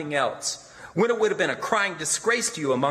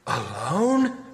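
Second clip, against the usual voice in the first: suspicious; 3 semitones higher than usual. A narrator's reading. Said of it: "with the old suspicion".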